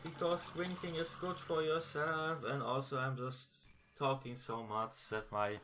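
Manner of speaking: hoarse, worn-out voice; tired, strained throat; losing voice. Real, not acted. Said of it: "my throat is dead".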